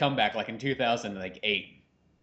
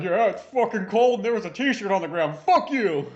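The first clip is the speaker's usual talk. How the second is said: mock hobo; 7 semitones higher, 4 dB louder than usual. Acting out a hobo's angry retort.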